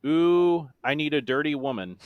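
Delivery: loud, held ooh, then even recital; deadpan monotone. Shown as a demonstration. Quizmaster reads a lyric that cracks players up, in a monotone. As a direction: speak the sung exclamation as dry prose. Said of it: "said in my best monotone voice".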